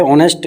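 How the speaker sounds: ऑनेस्ट with no h, opening on the vowel; silent h. Shown as a demonstration. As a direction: drop the h in ऑनेस्ट, start on ऑ. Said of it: "इसको ऑनेस्ट बोलते हैं". (ऑनेस्ट, बिना ह के)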